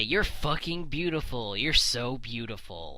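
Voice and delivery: a touch of a snide sneer; mildly sarcastic praise; sarcastic compliment. Shown as a demonstration. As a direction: say the compliment so it sounds bad. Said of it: "that does sound bad when I say it that way".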